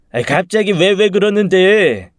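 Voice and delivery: high, loud, whiny mock stammer; mocking mimicry. Bully parroting the stammering boy to his face, mocking. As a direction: mimic the victim in an exaggerated high whine. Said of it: "제 목소리를 흉내내며 더 빈정거렸습니다".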